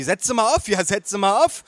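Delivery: high, insistent urging; bellowing mother. Acted. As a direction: urge them on in a high voice. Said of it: "brüllte sie".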